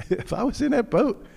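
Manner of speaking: usual speaking voice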